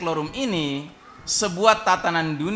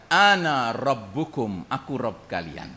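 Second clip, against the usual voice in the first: Dajjal proclaiming; 5 semitones lower, slower than usual. Acted. Dajjal proclaims himself lord.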